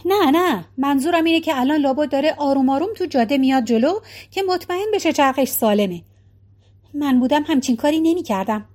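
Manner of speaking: quick, hasty backpedalling; hurried. Acted. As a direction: rush to take it back. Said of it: "با عجله گفت". (با عجله و دستپاچه)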